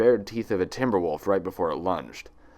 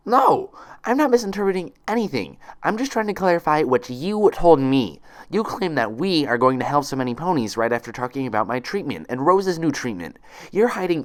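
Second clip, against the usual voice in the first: much higher, louder, furious protest; angry outburst, voice raised high; angry accusation; 7 semitones higher, 4 dB louder than usual. Acted. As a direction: hurl it back at the nurse in rising anger. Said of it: "she felt her anger stirring again".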